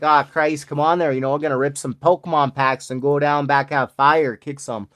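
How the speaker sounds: lightly put-on Alberta accent; a touch of Alberta accent. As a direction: imitate an Alberta good old boy, lightly. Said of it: "we got the whole Alberta accent".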